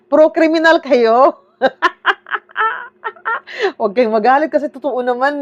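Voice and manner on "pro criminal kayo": laughing taunt. Real, not acted. Laughing jab at rights defenders.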